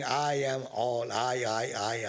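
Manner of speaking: egotistic guru. Retold or imitated. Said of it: "egotistic guru, thinking".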